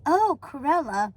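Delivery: slow, deflated recognition; drawn-out, displeased reply; unenthusiastic. Acted. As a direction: let the greeting sink reluctantly. Unhappy to hear caller.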